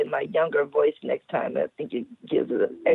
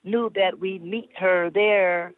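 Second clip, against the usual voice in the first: put-on old lady voice. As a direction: read it like a sensual old lady. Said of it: "I'm using my old lady voice".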